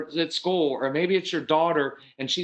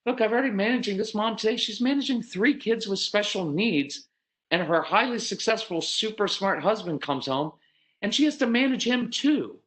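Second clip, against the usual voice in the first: higher-pitched mock voice of a worn-out wife; exasperated wife; 6 semitones higher than usual. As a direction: voice the tired wife's inner complaint. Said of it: "when she looks at you, it's like".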